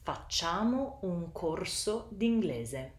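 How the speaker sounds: "Facciamo un corso d'inglese" with each syllable clearly pronounced; Italian syllable-timed "Facciamo un corso d'inglese"; every syllable clear. Shown as a demonstration. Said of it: "you pronounce every syllable clearly".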